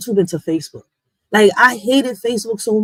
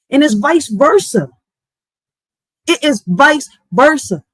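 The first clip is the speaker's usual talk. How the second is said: pitched up, fired-up rant at the app; heated rant; 5 semitones higher than usual. Real, not acted. Scolding men and women on the app, heated and pitched up. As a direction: let it rip, scolding everyone online.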